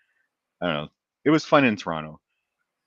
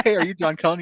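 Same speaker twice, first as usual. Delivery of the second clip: higher, louder, curious mother; 9 semitones higher, 5 dB louder than usual. Retold or imitated. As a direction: ask it brightly like mom. Mother voiced retelling.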